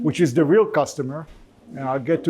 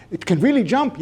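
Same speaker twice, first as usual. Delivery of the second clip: mock eager question; 6 semitones higher than usual. Inventor acted asking.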